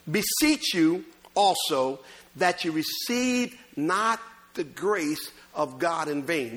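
very slow, deliberate verse reading; scripture reading. Real, not acted. Preacher rereads verse to congregation, deliberate scripture reading. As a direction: spell the verse out phrase by phrase, slowly.

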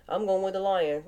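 whispered, as if sharing a secret; whispered pick. Pretend.

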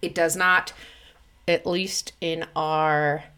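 speaking from the side of the mouth; out of mouth corner. Acted. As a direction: push the words out one corner of the mouth. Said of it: "I'm talking out of the side of my mouth".

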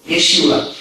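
Yeshua said as YEH-shoo-ah, stress on the first syllable; Hebrew name. Shown as a demonstration. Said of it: "that's Jesus in Hebrew".

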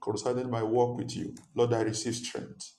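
passionate praying aloud; fervent prayer. Acted. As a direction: pray with fervour.

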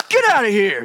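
booming shout to scare off a dog; big commanding yell. Retold or imitated. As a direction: roar it out like you're bigger and badder. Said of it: "I lowered my voice about three octaves".

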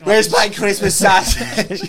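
mock dad outburst, laughing through it; imitating dad. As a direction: ham up the angry father. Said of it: "That's what your dad sounds like".

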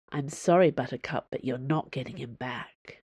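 quiet, breaking voice, holding back tears. Acted. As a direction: let the voice crack and sink as she repeats it. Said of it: "Her voice broke as she repeated the words".

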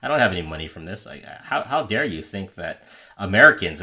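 lightly imitated Russian New Yorker, indignant; a hint of Russian New York accent in protest. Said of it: "in his best Russian New Yorker accent".

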